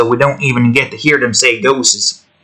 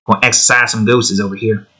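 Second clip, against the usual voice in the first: southern drawl; 3 semitones lower, faster than usual. Shown as a demonstration. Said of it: "I have, like, the perfect southern drawl".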